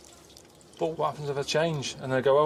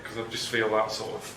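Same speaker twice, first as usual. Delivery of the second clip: feeling sick; 3 semitones lower, 4 dB quieter than usual. Real, not acted. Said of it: "I feel really sick".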